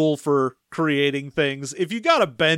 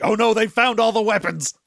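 slightly panicked, higher pitch; mock freaking out; 4 semitones higher than usual. Dusk reacting as the troopers search, mildly freaking out. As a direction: play a mild, comic panic. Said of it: "absolutely freaking out".

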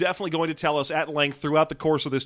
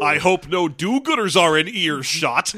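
mustache twirling villain; 4 dB louder than usual. Acted. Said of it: "twirling a mustache".

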